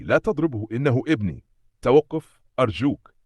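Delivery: mother's high, loud desperate plea; crying out in tears. A narrator's reading. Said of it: "تصرخ الأم وهي تبكي".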